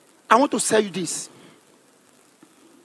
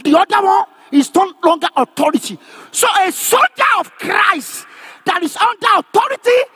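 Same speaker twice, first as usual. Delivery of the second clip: emphatic, raised-pitch sermon delivery; forceful preaching; 6 semitones higher than usual. Real, not acted. Preacher explains the soldier under authority to a congregation, forceful preaching. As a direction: drive each phrase home to the congregation.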